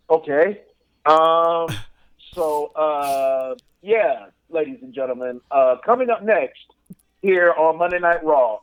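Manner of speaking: halting, stunned mock broadcast; dead-faced commentator. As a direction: carry on blankly with hesitant pauses. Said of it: "dead faced".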